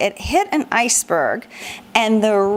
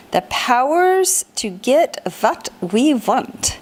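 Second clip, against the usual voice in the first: put-on German accent; 3 semitones higher, slower than usual. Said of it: "supposed to be said in a German accent".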